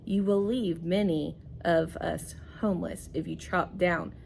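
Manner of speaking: put-on reading to children. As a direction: linger on ruined lives as the frog. Teacher reads frog's plea.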